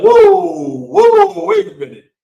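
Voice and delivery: high, loud startled whoa; hammed-up shock at the jersey; mock surprise. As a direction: pitch it way up like someone taken aback. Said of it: "People were like".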